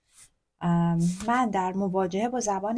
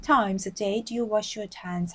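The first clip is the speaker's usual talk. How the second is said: slow model reading; much slower than usual. Shown as a demonstration. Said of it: "هر چند دفعه دستاتو".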